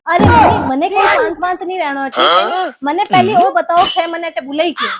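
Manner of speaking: loud, angry complaint to mom; angry outburst. Acted. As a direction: snap back at mom in rage. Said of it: "क्यों हका कर रही है तू". (माँ पर ज़ोर से गुस्से में बरसना)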